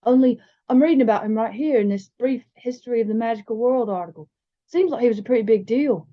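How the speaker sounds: a hint of a bookish boy; lightly voiced bigger boy. Bigger boy asks James about his famous relative, lightly voiced earnestness.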